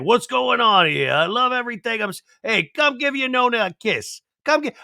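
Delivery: put-on a high Jersey Italian grandma accent; thick Jersey accent, a nonna calling for kisses. Nona greeting her family, thick Jersey accent, high voice. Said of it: "every one of my Jersey people are gonna be with that accent".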